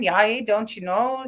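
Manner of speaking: drawn-out Wisconsin-style dialect; slow, hammed-up Upper Midwest accent; regional dialect. Shown as a demonstration. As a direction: stretch it out in a northern Midwest accent. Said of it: "different dialects of English across the United States".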